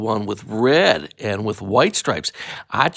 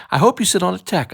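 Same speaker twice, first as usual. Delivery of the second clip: spiteful wish, quick; 6 semitones higher, much faster than usual. Acted. Alexander to Paul, fast spiteful jab. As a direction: snap it out fast and higher. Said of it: "I said to Paul".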